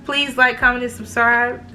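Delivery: slight lisp from braces; lisping through new braces; talking with braces. Real, not acted. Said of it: "these braces make me talk with a lisp".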